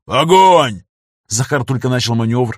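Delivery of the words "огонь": louder fire command; yelled. A narrator's reading. Gunner ignoring the pilot and yelling fire, loud yell. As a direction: bellow the order. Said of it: "заорал".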